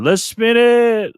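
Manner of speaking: slow, high and loud gremlin. Retold or imitated. Streamer voicing the troll as a midnight gremlin, drawn out and high. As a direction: stretch it out like a little gremlin. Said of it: "He's going".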